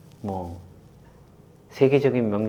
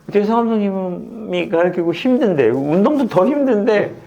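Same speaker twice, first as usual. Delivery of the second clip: excited retelling; 8 semitones higher, 5 dB louder than usual. Retold or imitated. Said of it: "그런 얘기를 직접 하는 거예요".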